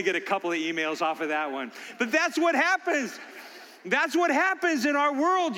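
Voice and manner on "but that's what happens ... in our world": higher, laughing through the words. Real, not acted. Pastor still laughing before the congregation. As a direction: carry the laugh into the point.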